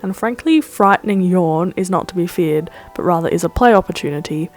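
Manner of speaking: measured, scripted video-essay narration; scripted voice-over. Acted. Host reviewing My Neighbor Totoro for viewers, scripted voice-over. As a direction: read it as a composed film-review voice-over.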